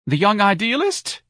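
high, slow plaintive question; sobbing wife. A narrator's reading. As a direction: wail it in mild mock distress. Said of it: "Missus Levy sobbed".

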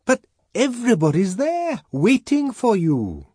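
high, loud pleading shout; shouting through door. A narrator's reading. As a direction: call urgently through a locked door. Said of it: "Bernard had to shout through the locked door".

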